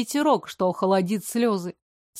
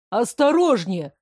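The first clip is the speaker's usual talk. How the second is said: shout. Acted. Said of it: "крикнул кто-то из охранников".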